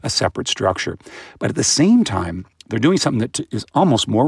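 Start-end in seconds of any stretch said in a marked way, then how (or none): 0.0-1.0 put-on much higher voice for a baby's sudden discovery; baby's realisation. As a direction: play a baby catching on. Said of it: "So they".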